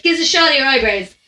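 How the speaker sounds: lightly put-on Dublin accent; Dublin speak. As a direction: imitate an old fella's Dublin slang. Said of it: "in Dublin speak".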